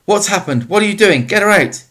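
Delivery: high, loud demanding shouts; alarmed yell. Acted. Farmer running down and yelling at the boys, alarmed. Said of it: "he yelled".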